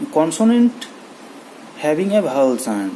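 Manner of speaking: reading the English rule very slowly. Shown as a demonstration. Teacher slowly reading the grammar rule aloud to students. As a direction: dictate each word to the class. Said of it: "ᱢᱟᱱᱮ ᱟᱵᱚ ᱫᱚ ᱮᱱᱟᱱ ᱵᱚᱱ ᱥᱮᱬᱟ ᱟᱠᱟᱫᱟ ᱡᱮ".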